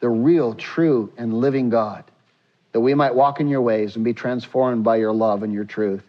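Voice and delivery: low, measured prayer voice; closing prayer. Real, not acted. Pastor closing the congregation's prayer before reading scripture, low prayer voice.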